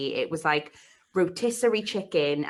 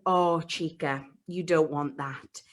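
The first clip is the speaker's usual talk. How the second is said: slow, a lightly voiced wry Spanish woman; knowing shopkeeper; 2 semitones lower, slower than usual. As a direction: gently warn her off, slowly. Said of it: "she went".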